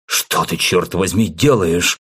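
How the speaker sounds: angry growl. Acted. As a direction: snarl it at him. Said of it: "зарычал Волков".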